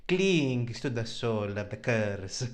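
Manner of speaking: slow, solemn story narration. Acted. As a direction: set the scene slowly. Narrates the scene slowly.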